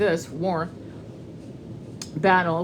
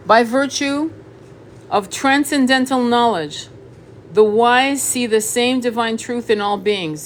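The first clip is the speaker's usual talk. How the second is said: raised, louder, slow card reading; reading aloud; 3 semitones higher, 6 dB louder, slower than usual. Acted. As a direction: read it out slowly and emphatically, voice lifted.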